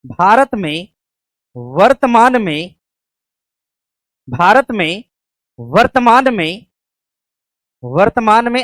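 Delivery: slow, repeated dictation phrases; teacher dictating a new question. Shown as a demonstration. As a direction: let each phrase land for the pen. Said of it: "लिखिएगा".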